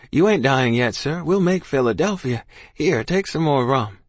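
rally him with forced hope; urgent reassurance. Acted. Boy pleading with dying man.

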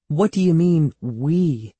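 high start, dropping on 'we'; teasing. A narrator's reading. Andy ducking Evan's problem, teasing. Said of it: "Andy teased".

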